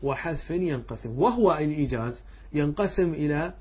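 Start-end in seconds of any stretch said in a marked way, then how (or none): 0.0-1.2 slow, measured recital of the poem line; reciting the verse. Shown as a demonstration. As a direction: draw the verse out slowly, word by word. Reading the next line of verse. (تلاوة بطيئة لبيت من المتن)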